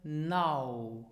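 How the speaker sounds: now, slowly; now as the ow example; model word. Shown as a demonstration. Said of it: "as in the English word".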